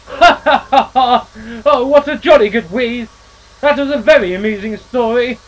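booming jolly laughter; hearty laugh. Acted. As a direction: laugh like a jolly old engine. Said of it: "The others laughed harder than ever".

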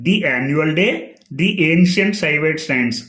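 "the" said "dee" before annual and ancient; long ee in each "the"; careful teaching demo of "dee". Shown as a demonstration. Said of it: "ఇలాంటివి చాలా చాలా important".

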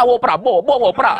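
tail syllable "wo" stuck before "Prabowo", then jumbled; mock attempt at repeating a three-syllable name; fumbled Madurese reduplication. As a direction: trip over doubling "Prabowo" as "wo Prabowo, wo pra". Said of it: "soalnya tiga suku kata".

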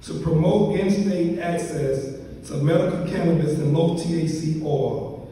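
formal bio reading. Real, not acted. Reads out the honoree's biography.

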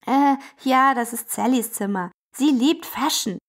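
a shy helper explains the room; Summi's voice. Acted. Summi character voice. (Summi erklärt zögernd mit tieferer Stimme)

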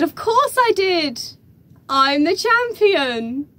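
reply high and proud, stretching the title; proud boast. Retold or imitated. Young winner answering the host, proud boast.

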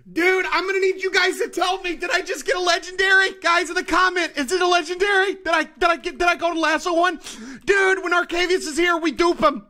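thrilled gamer shouting; excited appeal. Real, not acted. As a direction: call out eagerly to the viewers. Excitedly asking viewers about the catch.

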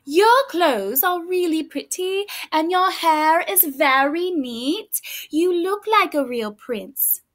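slow, sugary sarcastic compliment; mock sweet praise. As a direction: lay the flattery on thick. Elizabeth mocking the prince.

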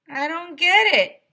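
high, loud, slow baffled voice; Mister Bill confused. Acted. Ice cream man admits he's stuck, high loud and slow. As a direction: whine it out, totally lost.

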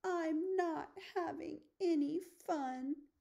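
a little cub's sulky roar. Acted. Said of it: "He roars across the grasslands".

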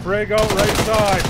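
loud slow callout; shouted callout. Real, not acted. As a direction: bark it out to the team. Callout throwing grenade.

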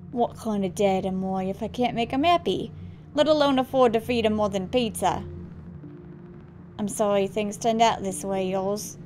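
regretful, attempted Australian accent; understated sad dad, faked Australian. Dad apologising to son, regretful attempted Australian accent. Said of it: "sorry to all the Australians".

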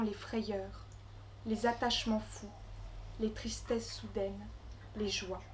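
measured recital with long pauses between phrases; poem reading. Acted. Poet reading her Congo travel poem to the gathering, measured recital. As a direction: recite it line by line, letting each phrase settle.

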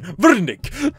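attempted German "Wernick"; German accent. Shown as a demonstration. Player trying out a doctor's name, German accent. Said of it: "that sounds German".

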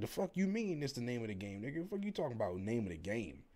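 retold challenge, pitch jumping up mid-line; mildly heated, incredulous comeback; indignant retort. Indignant retort to shrugging coworker.

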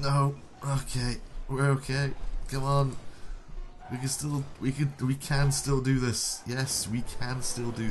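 loud, high urgent rally; rally the team in the last seconds; tense excitement. Real, not acted.

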